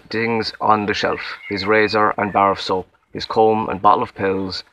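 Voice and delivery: measured, mildly polished book narration; slightly fancy reading. Shown as a demonstration. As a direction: read the story aloud a bit fancily. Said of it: "trying to be kind of fancy".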